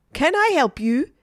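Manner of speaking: high-pitched waitress greeting; French waitress. A narrator's reading. Waitress to Margaret at the cafe counter, high-pitched offer. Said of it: "French waitress to Margaret".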